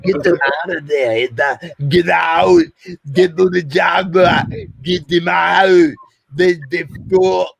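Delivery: high, put-on cries of someone freeing trapped people; hammed-up panic, strained and high; pretend frantic plea. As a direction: play at shouting for a rescue, words stretched out.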